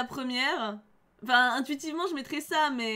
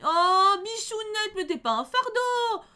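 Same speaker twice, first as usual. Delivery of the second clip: tender comfort; 7 semitones higher, 4 dB louder, much slower than usual. Acted. Comforting the game character.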